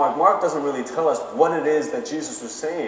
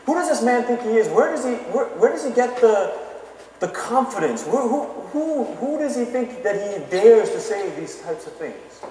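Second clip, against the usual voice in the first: indignant crowd; 4 semitones higher than usual. Retold or imitated. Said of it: "these people are saying".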